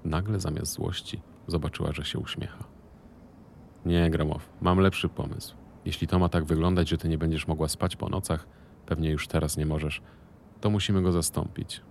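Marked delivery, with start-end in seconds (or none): 3.9-11.8 a louder, pushier man's voice for Marchlik; lightly voiced partner. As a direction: play him loud and self-satisfied. Marchlik with a new idea. (Marchlik mówi głośniej, zadowolony z siebie)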